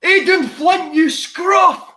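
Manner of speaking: put-on loud, high Welsh-accented shout; bad Welsh accent. Co-host doing a bingo catchphrase, loud bad Welsh accent. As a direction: yell it in a badly faked Welsh accent. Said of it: "that was really bad Welsh".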